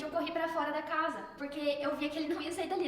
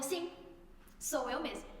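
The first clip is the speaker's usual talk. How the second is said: quoting Jesus's answer; 2 semitones higher, 6 dB quieter, slower than usual. Retold or imitated. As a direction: say it simply, a little softly. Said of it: "Bem assim".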